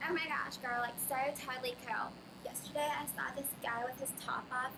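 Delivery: put-on gushing Valley girl chatter; Valley girl accent. Shown as a demonstration.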